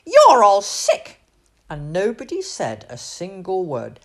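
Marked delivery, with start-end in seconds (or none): 0.0-1.2 loud slow shocked exclaim; gasping princess. Acted. Princess discovers everyone caught her cold, loud shocked cry. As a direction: gasp it out in disbelief. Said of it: "The little princess gasped".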